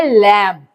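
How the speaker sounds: "लैम" pronounced with the final B left silent. Shown as a demonstration. Teacher shows pupils how lamb is pronounced, "लैम" with silent B. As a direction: say "लैम" ending on M, no B sound. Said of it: "हम इसको pronounce क्या करते हैं".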